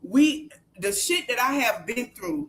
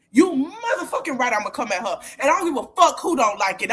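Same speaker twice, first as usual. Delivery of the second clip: angry; faster than usual. Real, not acted. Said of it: "I'm pissed now".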